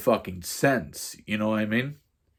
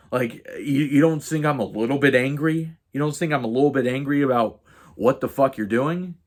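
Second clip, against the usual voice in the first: mildly heated, higher-pitched rant; retold telling-off; 4 semitones higher than usual. Confronting roommate on the balcony, retold angry telling-off. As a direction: lay into him with indignant emphasis. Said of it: "I just laid into him".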